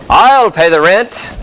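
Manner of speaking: slow, grand hero voice; heroic rescuer. Acted. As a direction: declare it like a melodrama hero. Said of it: "I just put on three masks".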